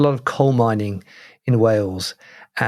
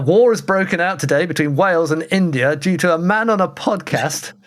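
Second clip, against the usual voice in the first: put-on bulletin delivery, slightly raised pitch; mock newsreader; 3 semitones higher than usual. Podcaster reporting an absurd war over accents, mock news report. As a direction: announce it like breaking news.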